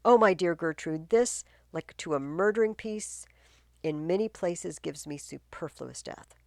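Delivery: a king torn with grief, declaiming; troubled king. Acted. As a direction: Claudius grieving aloud to his queen. Teacher reads King Claudius.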